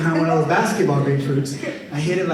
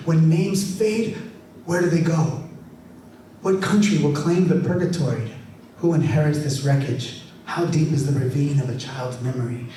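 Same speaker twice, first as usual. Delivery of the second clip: measured spoken-word reading; poem recitation. Acted. Poet reciting his letter to the San Joaquin Valley, measured. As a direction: recite each question like a lament.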